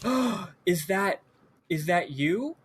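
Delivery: gasp, then slow, hesitant wonder; lightly acted hushed recognition with a rising question; mock astonished gasp. Doll spots a lookalike scarecrow, gasping mock astonishment. Doll thinks he sees his brother.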